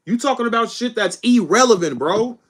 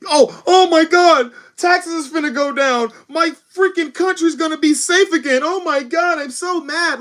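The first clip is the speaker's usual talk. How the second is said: higher put-on voice mocking an opponent; mocking impression; 5 semitones higher than usual. Streamer mocks how his opponent sounds, in a higher put-on voice. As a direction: parody the other side's outrage, pitched up. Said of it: "that's how stupid you sound".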